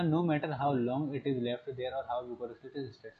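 very slow, word-by-word reading aloud; slow textbook reading. Shown as a demonstration. Teacher reading the textbook definition to the class, slow and deliberate. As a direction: read the definition slowly so students can follow.

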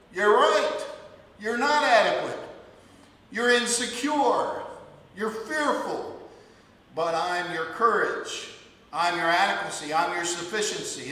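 God answering the complainer, booming; loud preaching. Acted. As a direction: thunder the answer back.

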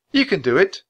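high, encouraging lift; coaxing. A narrator's reading. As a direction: urge the bird to try flying. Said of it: "Annie coaxed".

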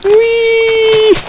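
very high, long squeal; playful "whee" squeal. Pretend. Gamer running from spiders, playful high squeal.

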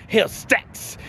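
breathy, menacing whisper. Acted. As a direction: whisper it like a threat.

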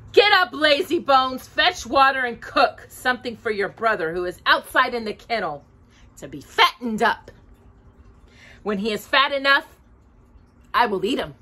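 put-on high, harsh orders to a child; bossy witch. Witch ordering Gretel about, harsh and bossy. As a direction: bark the chores at her.

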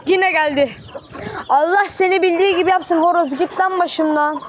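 telling the attacking rooster to get down; scolding the rooster. Real, not acted. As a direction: tell the rooster off.

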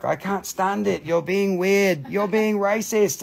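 put-on complaining voice; mock complaint. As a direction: imitate an indignant objector. Imitates complaining viewers.

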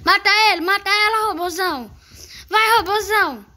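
high, loud cheering; excited cheering. Real, not acted. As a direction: cheer your teammate on. Cheering on teammate.

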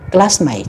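classmate split as class-mate between S and M; split syllables. Shown as a demonstration. Teacher modelling the syllable split in classmate. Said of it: "chúng ta chia nó ra".

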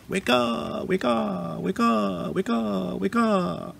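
high, wailing bird call on repeat; shrieking weka. A narrator's reading. Frightened weka flees into the forest, shrieking high. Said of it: "he shrieked off into the forest".

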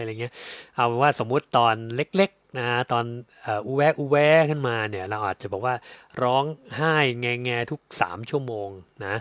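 ordinary talk, nothing marked

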